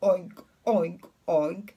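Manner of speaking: lightly imitated pig oinks; short, separate pig noises. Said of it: "what does the pig say".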